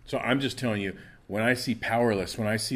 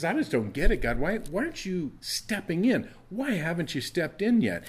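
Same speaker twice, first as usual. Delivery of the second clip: pleading with God, pitched high; bewildered complaint; 6 semitones higher than usual. Acted. Habakkuk questions why God won't step in, bewildered complaint. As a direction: press God for an answer, baffled. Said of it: "Habakkuk is really struggling with".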